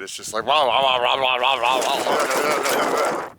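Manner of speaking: rattling wah sounds; bumpy road wah. Shown as a demonstration. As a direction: imitate bike shaking on washboard. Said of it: "shaking me to pieces".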